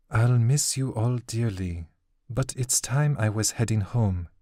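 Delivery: lightly voiced young woman, gently resigned; a hint of a woman saying goodbye; Jack, resigned. Jack's farewell.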